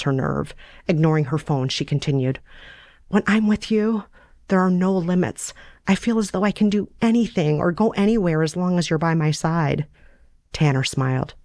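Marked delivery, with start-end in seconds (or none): 3.1-9.9 put-on lightly higher, earnest young woman; a hint of a lovesick girl, pitched up; Sarah's voice. Sarah confessing her feelings to Tanner, lightly higher earnest voice.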